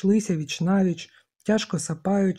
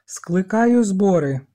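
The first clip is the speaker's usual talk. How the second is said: громко и медленно, сквозь одышку; объяви чётко, хоть и задыхаешься; запыхавшись, но чётко; 2 semitones higher, 6 dB louder, slower than usual. A narrator's reading. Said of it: "Задихаючись, а проте чітко".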